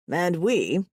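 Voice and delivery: mildly grand announcement; announcing. A narrator's reading. Brother speaks for all three, announcing. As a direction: announce it to the group. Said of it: "Pashov announces".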